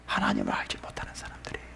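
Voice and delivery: very low, hushed drop; barely voiced; whispered verdict. Real, not acted. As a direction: let the verdict fall to a whisper. Preacher delivers verdict softly.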